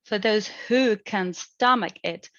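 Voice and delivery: "who" said strong, nucleus falling on "stomach"; "who" stressed as a content word; emphasis on who. Shown as a demonstration. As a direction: give "who" its strong form. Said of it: "It is used with emphasis".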